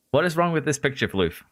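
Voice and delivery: light mock German accent; a quick put-on German accent, half in jest. Streamer quipping at Floof about the picture, light German accent. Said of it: "Why did you just pull a German accent there?".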